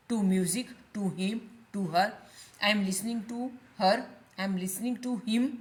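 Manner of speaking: slow, spaced model sentences; teacher dictation pace. Shown as a demonstration. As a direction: read each example slowly. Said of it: "teacher models sentences slowly".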